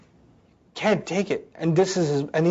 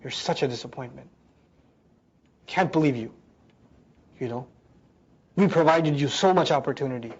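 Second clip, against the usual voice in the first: low, subdued reproach; hurt, disappointed parent; 4 semitones lower, 3 dB quieter than usual. Acted. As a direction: let the disappointment sink in quietly. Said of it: "and they're hurt".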